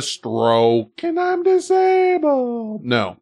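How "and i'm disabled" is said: high, slow slurred put-on voice; slurred mock voice. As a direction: slur it out, slowly and high. Mock voice of stroke victim.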